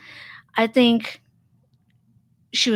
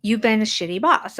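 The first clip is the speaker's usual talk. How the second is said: straight-faced. Retold or imitated. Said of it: "I just said with a straight face".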